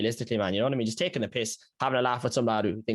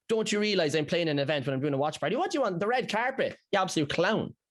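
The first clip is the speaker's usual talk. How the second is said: mocking scorn; 4 semitones higher than usual. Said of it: "this man coming in with a straight ego".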